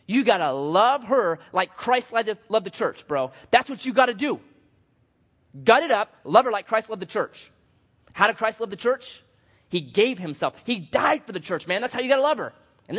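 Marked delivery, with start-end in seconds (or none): 0.1-7.5 emphatic acted lecture to a friend; preachy admonishing. Preacher tells an angry husband what to do, preachy admonishing. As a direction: lay down the verse forcefully. Acts out his scolding advice.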